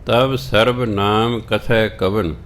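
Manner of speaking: slow, measured recitation of the verse; scripture recitation. Real, not acted. Gurbani ਦੀ ਪੰਗਤੀ ਸੰਗਤ ਨੂੰ ਸੁਣਾਉਂਦਾ ਕਥਾਵਾਚਕ, ਧੀਮਾ ਪਾਠ. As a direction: chant each word of the line deliberately.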